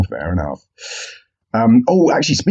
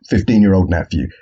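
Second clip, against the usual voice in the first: flat deflated repeat. Real, not acted. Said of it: "Same collar size".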